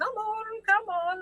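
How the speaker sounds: gentle acted voice. Voicing Aggie as she shifts around her cats: Aggie's kind voice. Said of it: "But this is a kind voice".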